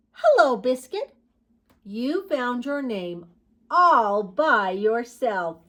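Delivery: loud, drawn-out storybook praise; little girl. Acted. Little girl greeting named puppy, lightly voiced proud delight. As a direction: praise the puppy in a child's singsong.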